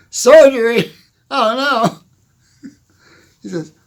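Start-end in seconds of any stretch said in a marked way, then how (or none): 0.1-2.7 high, loud alarmed cry of surgery; mock horror. Young patient told he needs surgery, hammed-up horror. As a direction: recoil in hammed-up dismay. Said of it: "young patient hears surgery".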